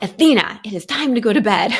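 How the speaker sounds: put-on loud, firm call to a toddler; tired mom raising her voice at bedtime. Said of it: "I basically said it at that tone".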